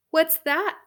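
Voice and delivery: high, loud query; startled queen. Acted. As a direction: ask sharply at a sudden noise. Queen hears sound.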